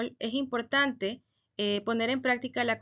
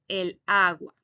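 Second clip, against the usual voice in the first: slow model phrase; 3 semitones lower, 3 dB louder, slower than usual. Shown as a demonstration. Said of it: "yo no voy a decir la agua".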